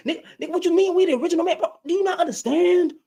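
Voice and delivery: mock whiny complainer. Mocking men who feel attacked.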